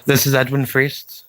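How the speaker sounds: lightly done news anchor delivery; a hint of TV anchor sign-off. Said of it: "This is my news anchor voice. Just kidding".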